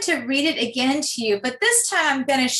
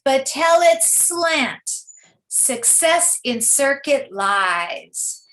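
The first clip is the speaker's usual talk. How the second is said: poem read aloud; slower than usual. Shown as a demonstration. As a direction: recite the poem slowly so the rhymes ring. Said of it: "read the whole poem all the way through".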